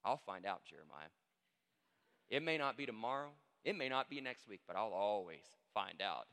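measured, lightly acted motherly warning; mother's warning. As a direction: warn like a mother who will catch you. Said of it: "that word of warning".

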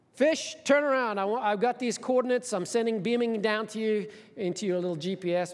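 a boss handing out instructions; God giving orders. Retold or imitated. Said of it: "so he says".

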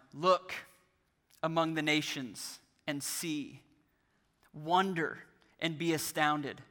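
slow, spaced-out proclamation of a Bible verse; solemn scripture reading. Acted. Preacher reading God's answer to the congregation, slow and solemn. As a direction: let each command stand alone between long pauses.

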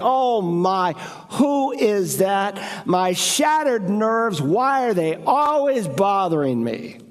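a hint of a put-upon sigh, slow on "My shattered nerves"; mock the lazy churchgoer annoyed at the doorbell; grumbling homeowner.

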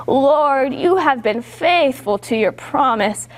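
lightly voiced old grandpa, slowing at the end; half-hearted old grandpa impression. Shown as a demonstration. Storyteller leading children in Simeon's line, lightly done grandpa voice. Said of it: "say this in a really old grandpa voice".

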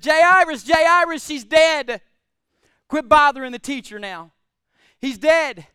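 urgent loud calling; frantic servants. Acted. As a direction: shout the bad news across the crowd. Servants run in with bad news.

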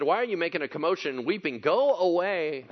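voiced rebuke. A narrator's reading. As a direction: send the mourners off forcefully. Jesus rebukes the mourners.

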